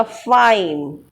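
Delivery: "फाइन" with its two-vowel glide stretched out; drawn-out diphthong. Shown as a demonstration. Teacher giving an example of a diphthong, drawn-out vowel glide. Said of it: "दो की sound आ रही है".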